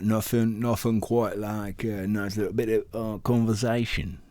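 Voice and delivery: high, bright-pitched mock Australian; Australian accent try. Shown as a demonstration. Friends goofing, testing an Australian accent. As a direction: try out an Aussie accent for a catchphrase. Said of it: "It's Australian, sounds Australian".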